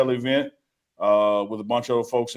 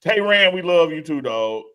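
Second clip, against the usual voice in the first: higher, louder shout-out to Rand; excited shout-out; 5 semitones higher, 3 dB louder than usual. Real, not acted. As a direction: call out to the fan, all hype. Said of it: "shouting out a fan".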